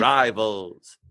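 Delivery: drawn-out newsreel sign-off, dropping in pitch; old-timey news voice. Acted. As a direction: close it like a vintage news bulletin. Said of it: "oldie-timey news voice".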